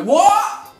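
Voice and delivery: high, loud, laughing; mock deafened reply with a laugh; laughing deafened what. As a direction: play half-deaf and amused. Deafened student answering teacher.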